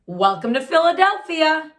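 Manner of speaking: high, bright greeting; happy friends greeting; joyful welcome. Acted. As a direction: welcome him with joy.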